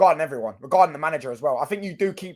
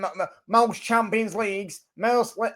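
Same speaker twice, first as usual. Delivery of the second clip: higher-pitched mock accent slipping into Manc; botched Manc accent; 6 semitones higher, slower than usual. Liverpool fan boasting of trophies, accent slipping into Manc. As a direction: aim for Scouse but land on a bad Manc accent. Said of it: "that's a fucking Manc accent".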